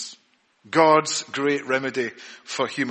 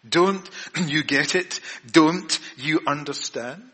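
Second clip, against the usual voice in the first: tender; 3 semitones higher, slower than usual. Shown as a demonstration. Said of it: "with great tenderness".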